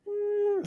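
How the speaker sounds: thin, very high, soft hum like a hurting dog; imitated pained whimper. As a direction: mimic a dog wincing in pain with a tiny high "mm". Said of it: "wincing and a lot of pain".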